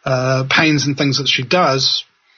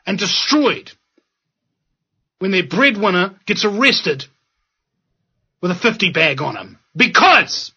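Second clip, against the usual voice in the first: rising, impassioned, pitch climbing higher; an activist's emotional plea against Peter Dunn, getting higher and more passionate; 3 semitones higher than usual. Real, not acted. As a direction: build the outrage to a higher pitch. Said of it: "Sorry I'm getting emotional about this".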